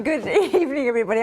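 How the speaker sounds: trying not to laugh; stifling laughter. Real, not acted. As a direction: hold back the giggles. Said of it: "I'll try and keep it together".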